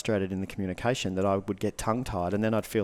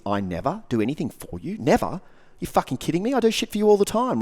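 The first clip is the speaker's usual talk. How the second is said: from disbelief to a higher, louder outburst; indignant, building to angry; 8 semitones higher, 6 dB louder than usual. Retold or imitated. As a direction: get fired up until you are yelling. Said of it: "the masculine hears".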